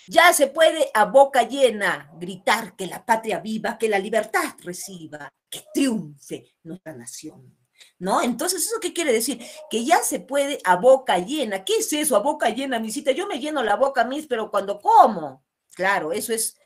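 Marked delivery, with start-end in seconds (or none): 0.1-7.6 slow, emphatic verse reading, loud start tapering off; lightly declaimed verse; poem recitation. Acted. 11.6-15.4 higher-pitched mock student questioning the teacher; lightly acted schoolkid voice; puzzled pupil.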